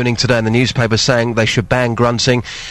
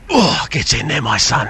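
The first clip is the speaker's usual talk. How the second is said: effort grunt. Shown as a demonstration. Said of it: "give it a quick".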